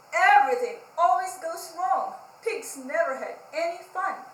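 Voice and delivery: loud whiny sulking; sulky complaint. Acted. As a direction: moan that nothing works. Pig complains in the mud.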